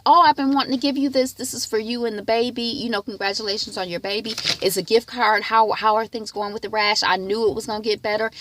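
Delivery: gushing church member. Retold or imitated. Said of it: "had run into him and said".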